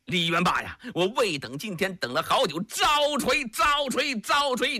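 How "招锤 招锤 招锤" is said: shouted challenge, pitched up; battle shout. Acted. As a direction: bellow it at the foe, three times. Pei Yuanqing shouts challenge.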